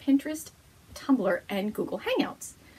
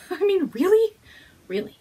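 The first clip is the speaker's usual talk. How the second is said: exasperated disbelief; 8 semitones higher, 7 dB louder than usual. Real, not acted. Exasperated rhetorical question.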